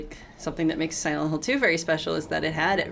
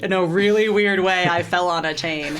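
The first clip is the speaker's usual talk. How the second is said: embarrassed patient; 4 dB louder than usual. Retold or imitated. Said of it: "He would go into the doctor and say".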